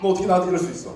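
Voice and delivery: mock-indignant reproach; acted accusing question, mildly angry; confronting. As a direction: take them to task, half in play. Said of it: "막 따집니다".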